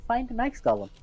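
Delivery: high-pitched imagined inner voice; voices in the head. Pretend. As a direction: pipe up as a teasing voice in someone's head. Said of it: "Just the voices in your own head".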